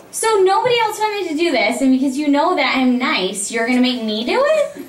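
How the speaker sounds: high, incredulous complaint; mock indignant. Actor to director who picked her for being nice, mock indignant. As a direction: protest at being taken advantage of for being nice.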